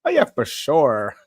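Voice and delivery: slow mimicry with a stretched "sure"; odd delivery imitated. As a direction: drag out "sure" as he does. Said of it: "I think that's what he said".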